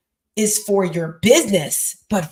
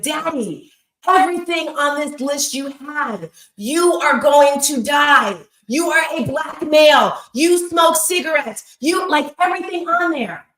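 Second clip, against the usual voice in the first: a higher, pressing plea that peaks in a shout on going to die; urgent warning; 5 semitones higher than usual. Retold or imitated. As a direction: urge your father, voice lifted and insistent. Pleading with father about health.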